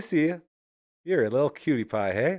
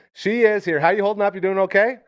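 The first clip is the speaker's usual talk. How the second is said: high, louder sing-song to the puppy; talking to the dog; 10 semitones higher, 6 dB louder than usual. Real, not acted. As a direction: coo at the dog like an excited owner.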